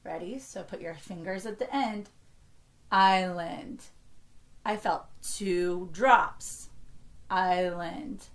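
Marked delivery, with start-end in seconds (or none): 2.9-3.8 slightly slower. Shown as a demonstration. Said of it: "say it a little slower". 7.3-8.2 slightly slower. Shown as a demonstration. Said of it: "say it a little slower".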